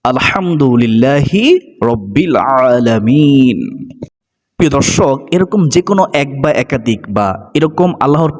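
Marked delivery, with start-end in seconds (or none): 0.0-3.9 even more drawn out, lingering on আলহামদুলিল্লাহি; prayerful, stretched-out recitation; slow Arabic recitation. Shown as a demonstration. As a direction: stretch each Arabic word reverently. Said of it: "এটা বলে আল্লাহর প্রশংসা করা যাবে যে".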